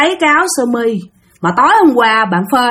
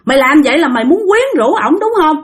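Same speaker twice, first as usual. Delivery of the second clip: a shade higher, heated; angry accusation; 4 semitones higher than usual. Retold or imitated. Sister repeating her accusation, heated. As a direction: press the accusation. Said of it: "Bắt đầu hả chửi nha".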